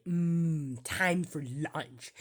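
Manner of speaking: slow, savoring mock voice; imitating the ad voice. Copying the ship's lunch voice, slow and savoring. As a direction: stretch out the lunch line like the ad. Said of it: "You hear the voice say".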